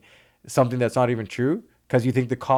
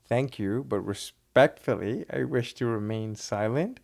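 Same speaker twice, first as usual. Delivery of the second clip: slow, calm and respectful, politely declining to talk; polite refusal; 4 dB quieter, slower than usual. Shown as a demonstration. A man arrested in Toronto calmly and politely declines to answer. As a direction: say it gently so it doesn't sound harsh. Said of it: "so that you're not coming off harsh".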